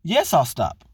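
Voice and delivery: high, falsetto mock reply of a rebuffed man; mock hurt husband. Imitating husband backing off after rejection, high mock voice. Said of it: "He's like".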